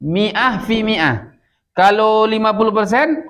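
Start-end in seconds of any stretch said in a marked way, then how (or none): 0.0-1.3 very slow, drawn-out Arabic phrase; model reading. Shown as a demonstration. Teacher showing how to read a percentage, slow model reading. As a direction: stretch each word for learners to copy. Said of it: "gitu bacanya".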